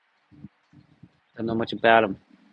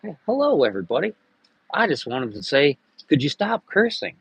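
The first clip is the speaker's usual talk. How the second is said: lightly voiced prim customer; mock prissy patron; 3 semitones higher than usual. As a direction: ask them nicely to stop swearing. Acted prissy bar patron.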